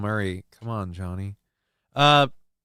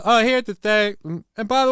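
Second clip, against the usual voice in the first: mock advice-giver; 8 semitones higher, 4 dB louder than usual. Streamer mocking people who lecture him, in a high mock voice.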